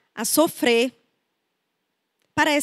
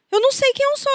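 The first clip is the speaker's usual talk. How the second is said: high, plaintive confession; lost and pleading; 12 semitones higher, faster than usual. Retold or imitated. A client confesses to the therapist, lost and plaintive. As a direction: sound lost, not knowing yourself. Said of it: "elas falam".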